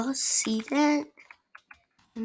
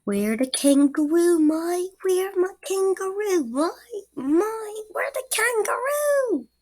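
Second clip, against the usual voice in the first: mock Australian accent; 3 semitones higher than usual. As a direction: pester in a hammed-up Australian accent, rising each time. Mock Aussie hunting a kangaroo.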